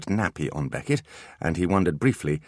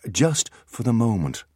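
reassuring; 5 semitones higher, 3 dB louder than usual. Acted. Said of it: "said Artemis reassuringly".

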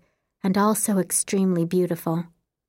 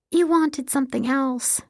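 fretting; 7 semitones higher than usual. A narrator's reading. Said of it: "Emily fretted".

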